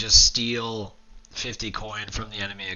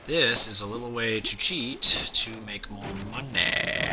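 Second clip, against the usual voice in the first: real whisper, keeping it down; 4 dB quieter than usual. Real, not acted. Gamer whispering a cheat tip near his sleeping baby, whispered. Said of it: "My baby's in the room".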